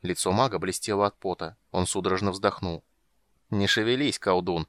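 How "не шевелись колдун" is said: mocking. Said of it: "издевалась Хисант".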